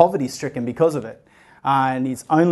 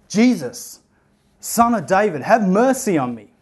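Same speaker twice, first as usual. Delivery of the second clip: calling out; 5 semitones higher than usual. Retold or imitated. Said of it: "he starts to call out".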